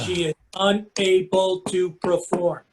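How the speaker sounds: slow, deliberate, word by word; patronising slow repeat; said slowly. Acted. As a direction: spell it out slowly as if to a child. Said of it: "I'll say it slowly".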